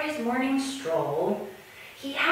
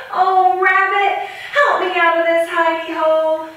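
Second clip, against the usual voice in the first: pleading lion; 9 semitones higher, 8 dB louder than usual. Acted. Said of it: "heard something crying".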